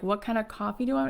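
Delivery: quick, incredulous repeat of the question; mock-stunned echo, hurried; disbelieving echo. Starstruck singer echoing the coffee question, disbelieving.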